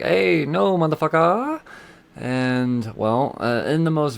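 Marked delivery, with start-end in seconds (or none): 0.0-1.6 angry outburst. Retold or imitated. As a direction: spit the curse out as Freeze. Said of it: "and Freeze is like".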